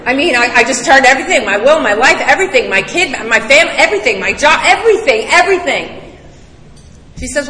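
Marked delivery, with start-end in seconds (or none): 0.0-6.0 frantic plea. Retold or imitated. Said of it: "so I says".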